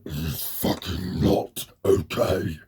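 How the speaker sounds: very slow, each word leaned on in mock anger; slow angry retort. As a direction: drag it out, barely holding the anger. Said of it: "huge urge going".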